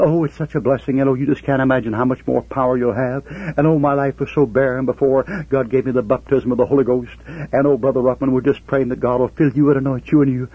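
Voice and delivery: syrupy pious lady. Retold or imitated. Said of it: "pouring on the honey and syrup fifteen feet deep".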